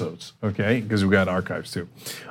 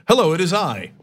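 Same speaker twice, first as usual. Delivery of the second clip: higher-pitched mock formal greeting; totally serious; 5 semitones higher than usual. Imitating the man on the plane's phone call, totally serious. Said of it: "He was being totally serious, like".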